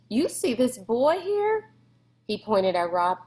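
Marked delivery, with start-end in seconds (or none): 0.1-1.7 shouting. A narrator's reading. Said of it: "Beauchamp shouted".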